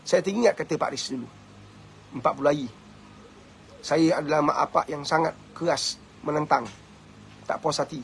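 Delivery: quiet sorrowful voice of a bereaved mother; grieving mother. Retold or imitated. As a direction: let the mother's grief sink the voice down. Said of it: "Dia nangis".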